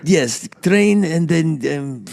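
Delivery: playful fake Russian Slovak accent; hammy Eastern European accent, Russian Slovak. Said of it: "That is my Russian Slovak accent".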